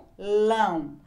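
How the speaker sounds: "papelão" split as pa, pe, lão; three sound groups. Shown as a demonstration. Teacher showing three groups of sounds, syllable by syllable. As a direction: break "papelão" into separate syllables. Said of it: "Três grupos de sons".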